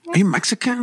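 Filipino-accented lady, mimicked. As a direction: imitate a Filipino lady's accented question. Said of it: "She got the accent still".

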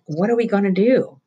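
lightly voiced nervous boy; boy's voice. A narrator's reading. Roy pleading.

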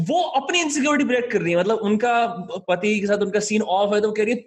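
fast and high, worked up; excited rant. Real, not acted. Rapid, high-pitched mocking rant.

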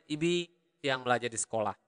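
quick, run-together native-speed sentence; normal native speed. Shown as a demonstration. Teacher gives students the sentence at real speed, fast. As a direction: rattle it off the way locals say it. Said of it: "Normal speed".

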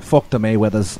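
Conor McGregor's Irish accent, imitated; mock Irish accent. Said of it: "that's all throughout Irish".

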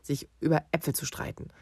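dad scolding over the noise; father yelling at squabbling kids; loud father. Retold or imitated. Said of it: "hat mitgebrüllt und gesagt".

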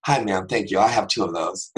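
sudden switch to calm politeness; everyday pitch, composed and civil; polite counter voice. Acted. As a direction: address the clerk courteously, as if nothing happened. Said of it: "get right to the counter and be like".

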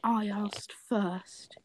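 slow breathy whispered confession. Acted. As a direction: breathe it almost without voice. Intimate reply in fic scene.

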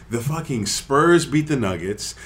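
ordinary talk, nothing marked

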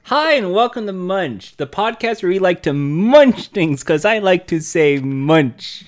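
upbeat host opener; show host intro. Acted. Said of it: "Take three".

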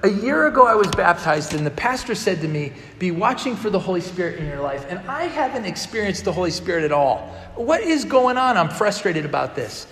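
worked-up complaint, pitch jumping at key questions; venting to a friend in a retold quarrel; retold frustration. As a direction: replay your own exasperation, mildly hammed-up. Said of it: "you've been frustrated lately".

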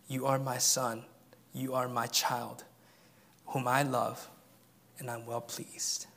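soft, hushed voice of God; quiet reassuring blessing; tender. Acted. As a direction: say it gently like a loving father. Preacher voices God's tender words.

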